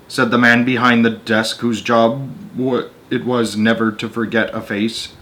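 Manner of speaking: measured read-aloud narrator voice; story narration. A narrator's reading. Reading a Roald Dahl story to an audience, storyteller voice. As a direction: tell the tale steadily to listeners.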